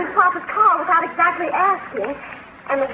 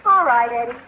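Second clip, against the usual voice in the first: quietly hurt; 3 semitones higher than usual. Acted. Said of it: "Oh, don't cry".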